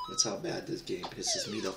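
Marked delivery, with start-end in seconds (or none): 1.0-1.7 yelling it slowly, real fury; furious slow shout. Real, not acted. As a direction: bellow out the frustration. Raging at the game.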